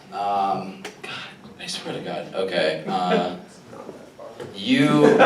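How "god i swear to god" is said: muttered aside. Real, not acted.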